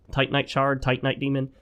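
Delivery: "Titanite" said TIE-tuh-nite, first syllable stressed; "Titanite" with a weak, reduced middle vowel. Shown as a demonstration. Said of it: "proper pronunciation is not Titanite".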